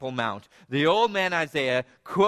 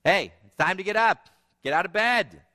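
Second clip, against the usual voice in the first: firmer, a bit louder mother; impatient wake-up call, less sweet; mother losing patience, louder; less sweetly; 4 semitones higher, 5 dB louder than usual. Retold or imitated. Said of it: "a little bit less sweetly".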